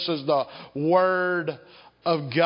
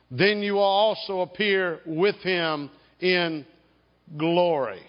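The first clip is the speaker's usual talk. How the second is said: scripture reading. Acted. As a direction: proclaim each phrase of Colossians with weight. Reads Colossians aloud to congregation.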